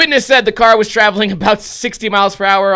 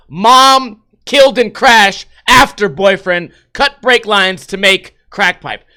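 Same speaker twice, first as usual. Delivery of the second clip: building headline read; 5 dB louder, slower than usual. Shown as a demonstration. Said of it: "the perfect storm? Put them together".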